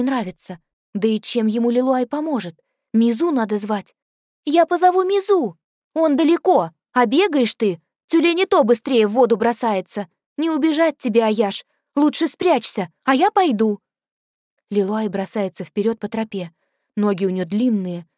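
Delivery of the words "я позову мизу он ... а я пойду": loud, high, hurried insistence; urgent shout. Acted. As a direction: shout it over the danger. (громкий взволнованный крик)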